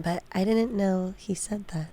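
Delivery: a soft, breathy aside; hushed aside about the clip; whisper. Real, not acted. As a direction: drop to a whisper as if confiding. Aside after the Bush clip.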